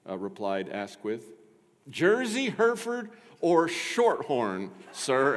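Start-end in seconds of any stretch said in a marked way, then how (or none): 1.9-5.4 high, loud, drawn-out list of options; over-particular butler, slowing on the last choice; formal butler. Acted. Butler asking Asquith which cow's milk, formal butler. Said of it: "asked the butler".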